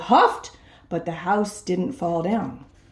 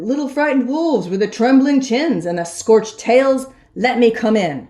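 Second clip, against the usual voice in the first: sly pig; 2 semitones higher, 4 dB louder than usual. Acted. Big bad pig taunting the frightened wolves over the phone. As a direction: taunt the wolves through the door.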